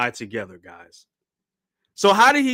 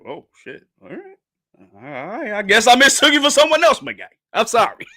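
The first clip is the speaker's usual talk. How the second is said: Harold; 9 semitones higher, 5 dB louder than usual. Acted. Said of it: "Harold is like".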